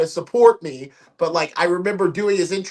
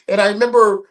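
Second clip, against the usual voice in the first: ordinary delivery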